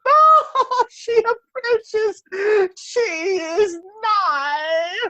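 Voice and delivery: high, slow alarmed exclamation; slow cry of alarm as she approaches. Acted. Canon crying out in alarm as the governess approaches.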